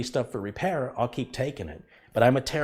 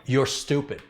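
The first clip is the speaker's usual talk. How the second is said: insulting demo; 3 semitones higher, slower than usual. Shown as a demonstration. Streamer shows viewers what insulting them would sound like, mild contempt. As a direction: show chat what a real insult sounds like. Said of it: "I would do this".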